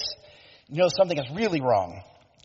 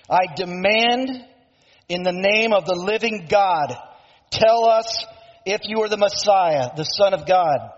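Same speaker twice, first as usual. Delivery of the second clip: demanding. Acted. High priest interrogating Jesus, acted.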